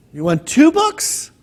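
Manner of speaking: a baffled librarian drawing it out; puzzled librarian. Acted.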